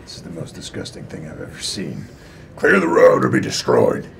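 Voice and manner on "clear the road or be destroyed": commanding threat. Acted. Character threatens the monsters.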